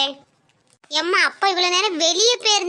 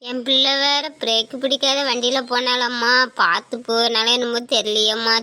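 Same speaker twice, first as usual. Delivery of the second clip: lamenting mother; 6 semitones lower than usual.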